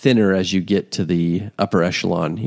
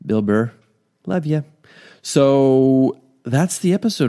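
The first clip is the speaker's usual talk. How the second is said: usual speaking voice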